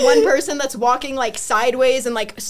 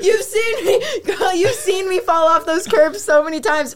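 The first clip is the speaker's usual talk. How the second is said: laughing; 5 semitones higher than usual. Real, not acted. Laughing appeal to friend.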